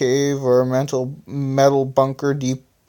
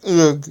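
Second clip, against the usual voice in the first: a short grunt of pain, lightly acted; a hint of being hit; mild pained cry; 3 semitones higher than usual. Flyer and the Origin hurt by the attack, mild pained grunt. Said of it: "screamed Flyer and the Origin in pain".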